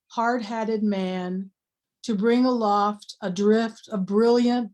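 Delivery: slow, deliberate poetry recital; measured reading of an elegy; poem reading. Acted. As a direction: draw out the line endings, pausing between phrases.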